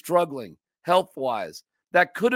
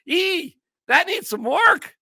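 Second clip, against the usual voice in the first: mock snooty clerk; 10 semitones higher, slower than usual. Repeats the mocked line again.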